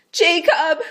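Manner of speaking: loud, high breathy cry of Jacob; shouted whisper. Acted. Dying Rachel calling to her husband. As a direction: call out with her last air. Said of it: "Rachel shouted".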